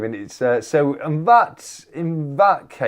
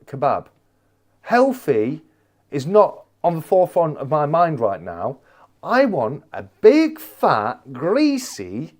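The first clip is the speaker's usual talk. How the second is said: emphatic retold rant, pitched up; exasperated protest; 3 semitones higher, 3 dB louder than usual. Customer in a takeaway defending cheat day, exasperated protest. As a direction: protest in separate, weighted chunks.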